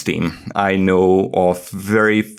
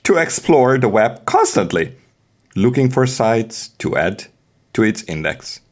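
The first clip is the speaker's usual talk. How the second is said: hammed-up theatrical narration, higher and swooping; dramatic reading; 4 semitones higher, faster than usual. Host dramatically reading documentation to listeners, theatrical. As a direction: play it up like a storyteller. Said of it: "now we are going to do dramatic reading".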